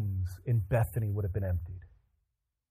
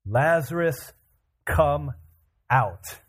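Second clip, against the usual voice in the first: firm, measured summons with pauses between words; loud calling voice; much slower than usual. Acted. Jesus calling the dead Lazarus out, loud measured call. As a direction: call it out, word by word. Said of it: "Jesus called out in a loud voice".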